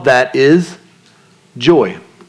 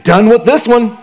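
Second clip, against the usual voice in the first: slow, higher, lightly voiced weary God; 6 semitones higher, slower than usual. Preacher voicing God as weary of the listener. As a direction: drag it out like God fed up. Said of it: "away from God saying".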